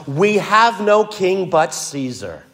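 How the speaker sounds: restrained imitation of a public outcry; mild crying out. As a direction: declare it publicly, drawn out, without shouting. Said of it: "the chief priest cries out".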